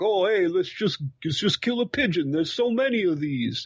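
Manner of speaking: put-on stereotyped New York accent. Voicing characters who decide to kill a pigeon, stereotypical New York accent. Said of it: "That's my New York accent".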